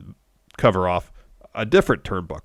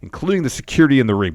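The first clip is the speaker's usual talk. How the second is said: mounting mock intensity; 5 semitones higher than usual. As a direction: retell the boss's rising, bragging rant. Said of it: "the intensity of it is, is raising".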